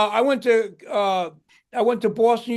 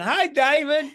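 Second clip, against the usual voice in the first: put-on Southern accent; 6 semitones higher than usual. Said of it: "He had that Southern accent".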